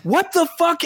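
very high-pitched mock-incredulous outburst; astonished. Fan reliving the surprise of a new version, astonished. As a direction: squeak out retold disbelief.

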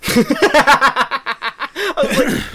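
laughing. Real, not acted. Laughing at friend burping.

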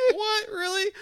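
retold disbelief. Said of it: "And I'm just like".

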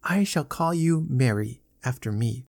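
put-on tender little-girl murmur; sweet nothings. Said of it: "she murmured tenderly".

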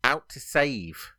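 measured chunks, left hanging for confirmation; three words at a time. Shown as a demonstration. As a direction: read it out in threes, pausing after each. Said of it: "I'll do it three words at a time".

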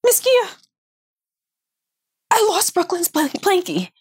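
imitating a panicked little girl, high-pitched; squeaky kid voice telling on herself; high child voice. Mom mimics the little girl losing the blankie, high. Daughter's friend voiced in story.

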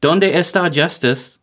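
measured announcer listing of titles; scripted promo read. Acted. Host plugging the network's shows, deadpan promo read.

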